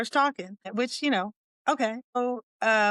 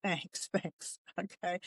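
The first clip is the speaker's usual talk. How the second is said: awkward thanks; 11 dB quieter, slower than usual. Retold or imitated. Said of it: "I'm like".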